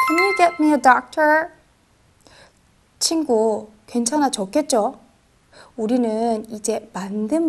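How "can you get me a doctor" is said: slow second take. Shown as a demonstration. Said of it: "한번 해볼까요".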